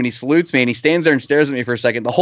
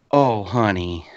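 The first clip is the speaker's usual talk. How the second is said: pitying oh honey; 4 semitones lower, much slower than usual. Retold or imitated. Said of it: "And I'm like".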